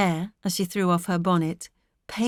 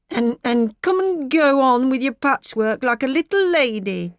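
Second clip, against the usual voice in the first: higher, louder fretful fussing; lightly voiced fussing mother; 5 semitones higher, 5 dB louder than usual. A narrator's reading. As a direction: nag a child upstairs. Mrs Tulliver fussing at Maggie.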